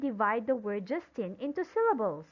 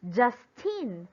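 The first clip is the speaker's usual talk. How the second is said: Justine with the first syllable louder, falling after; stress on first syllable. Shown as a demonstration. Teacher repeating the name for students, first syllable stressed in Justine. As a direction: lean on JUST in Justine. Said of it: "we pronounce the syllable just louder".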